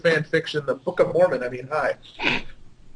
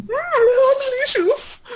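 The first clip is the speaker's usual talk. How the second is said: mock swoon; slower than usual. Mock swoon reading fanfic.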